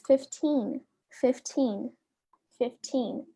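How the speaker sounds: "fifteen" said clearly with an ee sound, first take slow; modelled pronunciation. Shown as a demonstration. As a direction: model "fifteen" for the class to repeat. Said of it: "vou falar com som de i mesmo".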